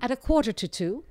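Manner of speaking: New Orleans accent. Shown as a demonstration. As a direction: lift quarter like a New Orleans local. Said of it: "It's difficult".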